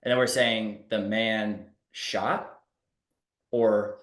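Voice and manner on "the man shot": very slow, rising tune on the man shot; questioning rise. Shown as a demonstration. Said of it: "It's, like, questioning now".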